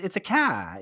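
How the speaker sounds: New England "car", r dropped; New England accent. Shown as a demonstration. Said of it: "like that New England".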